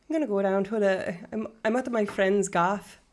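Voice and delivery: light Irish accent; casual demonstrated Irish lilt. Shown as a demonstration. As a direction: try out some Irish slang in an Irish accent. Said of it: "I'm halfway decent at an Irish accent".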